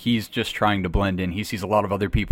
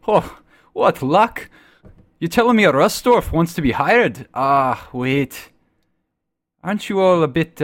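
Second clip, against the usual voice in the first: delighted exclamation; 6 semitones higher, 3 dB louder than usual. Acted. Druid thrilled the Rust Dwarf wants hiring, eager and high. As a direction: gush with surprise at your good fortune.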